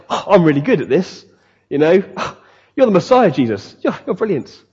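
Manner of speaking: lightly voiced cocky Peter. Preacher acting arrogant Peter before Jesus, lightly cocky. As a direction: play mild self-assured swagger. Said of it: "he's quite cocky with how he is".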